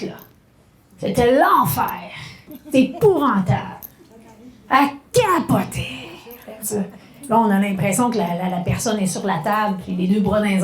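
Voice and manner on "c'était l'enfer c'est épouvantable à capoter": mock dramatic. Shown as a demonstration. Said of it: "le mini-spectacle dramatique".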